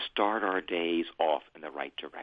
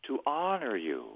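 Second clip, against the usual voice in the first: prayer phrase; 5 semitones higher than usual. Shown as a demonstration. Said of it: "But I'll do it phrase by phrase".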